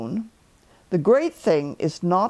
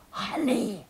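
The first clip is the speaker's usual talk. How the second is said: deep whisper; 4 semitones higher, 6 dB quieter than usual. A narrator's reading. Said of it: "said in a deep whisper".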